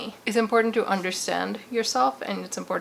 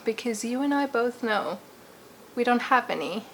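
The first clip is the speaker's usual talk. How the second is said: put-on playful British accent, slightly raised pitch; 2 semitones higher, 6 dB louder than usual. Vlogger welcoming viewers to her channel in a playful put-on British accent. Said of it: "I'm talking in this accent".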